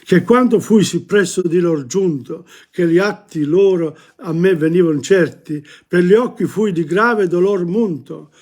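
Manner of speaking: measured reading of Italian verse; poetry recitation. Acted. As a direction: recite the tercet in flowing lines.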